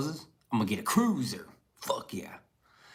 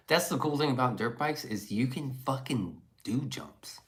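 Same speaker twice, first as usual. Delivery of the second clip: whisper. Real, not acted. Enthusing about dirt bikes.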